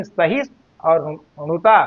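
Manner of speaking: सहिष्णु and णुता as separate pieces; wrong pronunciation. Shown as a demonstration. Teacher marking the faulty reading, सहिष्णु and णुता said apart. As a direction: cut between सहिष्णु and णुता. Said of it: "ये आपका उच्चारण अशुद्ध है".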